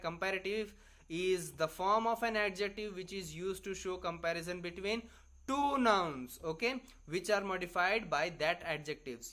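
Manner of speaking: reads the definition out very slowly, word by word; dictating a definition for students to copy; slow dictation reading. Acted. Teacher dictates a rule to students, slow and deliberate.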